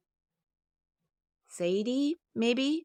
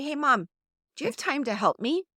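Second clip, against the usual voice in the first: higher, upbeat request to Mom; confident child; 5 semitones higher, faster than usual. Shown as a demonstration. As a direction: ask for help with easy confidence. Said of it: "Can you feel the confidence rise".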